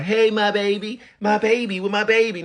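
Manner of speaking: high, put-on "Hey, my baby"; mock a poser overdoing the greeting; mocking wrong greeting. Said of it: "niggas don't be saying it like that".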